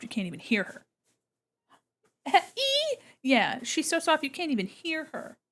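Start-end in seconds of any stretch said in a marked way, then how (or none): 2.6-3.0 high squeaky kitten sound; high kitten squeak imitation. Imitating tiny cat squeak.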